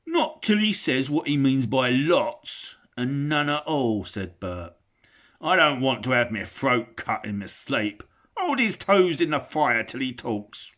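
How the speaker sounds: loud rough troll voice; suspicious troll. Acted. Bert insists on torture, loud rough. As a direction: refuse gruffly.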